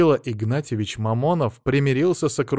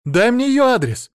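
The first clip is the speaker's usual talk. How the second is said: higher, louder delighted cry; excited gasp; 12 semitones higher, 7 dB louder than usual. Acted. Wife thrilled by the fortune teller's guess, excited gasp. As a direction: gush with sudden delight.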